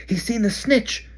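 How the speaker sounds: high, loud, slow excited shout. Acted. Harry shouting to friends in the stands, thrilled. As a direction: call it out over the roar. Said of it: "Harry shouted".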